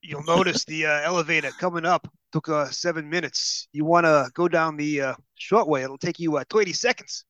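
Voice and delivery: lightly voiced New York elevator operator; a hint of a New York elevator man; New York accent. Host imitating the New York elevator operator from The Chase, lightly. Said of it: "all New Yorkers sound exactly like that".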